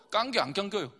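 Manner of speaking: short Chungcheong-accent demo; Chungcheong dialect. Shown as a demonstration. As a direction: say it like a Chungcheong local. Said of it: "충청도".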